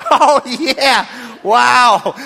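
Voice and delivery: high, loud and laughing; hammed-up aftermath of a yelp; mock pained exclaiming. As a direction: gasp it out through the pain. Reenacts reaction to pain.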